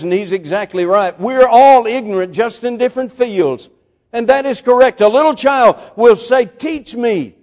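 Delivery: ringing pulpit delivery, pitched high; impassioned preaching. Real, not acted. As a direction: preach it out with rising fervour. Preaches at full force.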